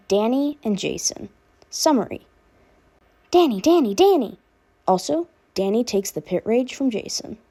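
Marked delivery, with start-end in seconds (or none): 3.3-4.4 calling out. Acted. Frantic calling of a name.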